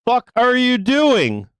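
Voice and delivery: slow, high-pitched angry demand; real exasperated fury, drawn out; furious. Real, not acted. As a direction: stretch it out in high, exasperated disbelief. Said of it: "fucking furious".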